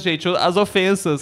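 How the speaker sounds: slowed, dragged words; slow motion. Shown as a demonstration. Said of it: "falando em câmera lenta".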